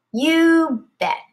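Lucy answers her mother, excited; eager. A narrator's reading. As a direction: chirp it out keenly. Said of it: "she says".

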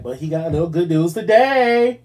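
talking through a yawn. Real, not acted. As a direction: stretch the words with a yawn. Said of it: "I don't know why I'm yawning today".

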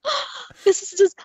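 high, laughing gasp of disbelief; kind gentle laugh. Real, not acted. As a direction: laugh through the words, overwhelmed. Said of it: "I'm not laughing at you".

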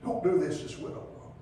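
breathy whispered plea; Elisha's hushed desperate prayer. Acted. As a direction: beg God in a near whisper.

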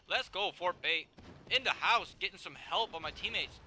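excited cheering. Real, not acted. Cheering teammates in game.

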